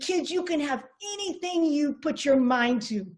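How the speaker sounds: put-on a light Moroccan accent, lifted and encouraging; mother in a hint of a Moroccan accent; thick Moroccan accent. Moroccan mother urging her kids, light Moroccan accent. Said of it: "in this thick Moroccan accent".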